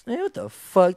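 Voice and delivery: high, loud startled curse; shocked outburst. Retold or imitated. Friend retelling a scare, shocked loud curse. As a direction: blurt it out in shock. Retold shock at sketchy situation.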